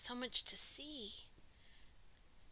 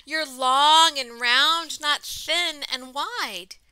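louder, lilting storybook reading; story read-aloud; 14 dB louder, slower than usual. A narrator's reading. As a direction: read it out to children, slowing for the refrain. Reading picture book aloud to children.

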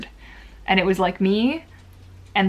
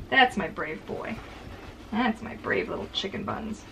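tender dog praise; 7 dB quieter than usual. Real, not acted.

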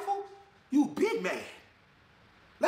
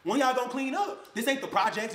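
a sudden high Damn, then slower fed-up scolding; exasperated; 4 semitones higher, slower than usual. Retold or imitated. Father scolding the kids about the messy house, exasperated. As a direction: half-shout it like a fed-up parent.

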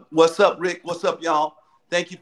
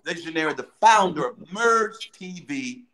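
hosting voice. Real, not acted. Host introducing the founder, hosting voice. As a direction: draw out the founder's title like a host. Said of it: "that's my hosting voice".

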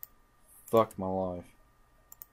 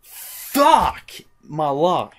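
slow, loud drawn-out despairing groan; exasperated groan; 7 semitones higher, 9 dB louder, much slower than usual. Real, not acted. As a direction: drag it out in utter defeat. Dies in lava again.

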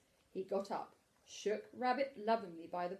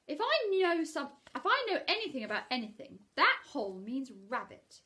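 high, eager bear voice; Pooh voice; 6 semitones higher, 6 dB louder than usual. Acted. Pooh working out that the hole means Rabbit. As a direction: sound pleased with your clever guess. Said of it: "he said".

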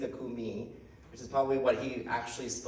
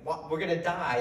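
mock panic, higher pitch; retold alarm, pitched up; freaking out; 5 semitones higher, 3 dB louder than usual. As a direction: lightly imitate sailors freaking out. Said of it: "they're freaking out".

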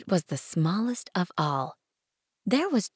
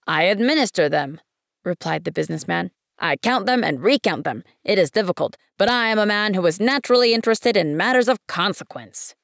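pompous businessman; 2 semitones higher, 4 dB louder than usual. Acted. Businessman describes his work.

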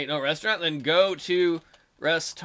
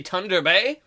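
Irish Thunder Bay with "Thunder" said as Tunder; light Irish lilt on "Thunder Bay"; Irish accent; slower than usual. Shown as a demonstration. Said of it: "as my Irish friends would say".

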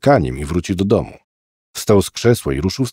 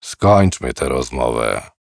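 irritated demand; 8 semitones lower, slower than usual. Acted. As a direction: shut the boy down, low and curt. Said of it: "zażądał poirytowany mężczyzna".

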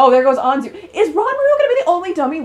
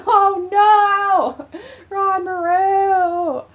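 drawn-out dismayed cry; 4 semitones higher, much slower than usual. Real, not acted. Gamer wails at the betraying character. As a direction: stretch Ranmaru out slowly in dismay.

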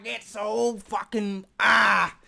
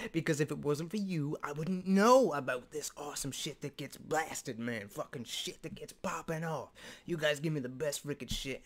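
sincere thanks; 3 semitones lower than usual. Real, not acted. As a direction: drop down and thank them from the heart. Sincerely thanking his viewers.

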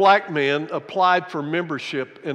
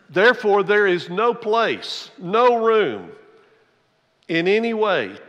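preaching loud; 3 semitones higher, 4 dB louder than usual. Acted. Preaching climax.

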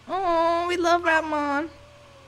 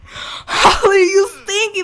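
high scolding; 7 semitones higher, 10 dB louder, slower than usual. Real, not acted. Scolding the dog.

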